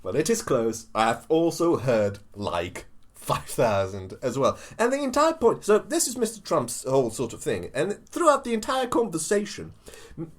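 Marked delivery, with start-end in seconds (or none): 0.0-4.6 more measured politician impersonation, low and drawn-out ending; lower-pitched, emphatic mock-presidential delivery; Trump. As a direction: repeat the impression with less force.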